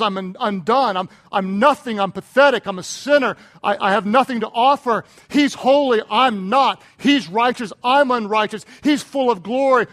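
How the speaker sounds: loud, emphatic retold confession; crying out. Preacher voicing Isaiah's confession before God, emphatic cry. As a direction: hammer out each admission in mounting contrast. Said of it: "he cries out".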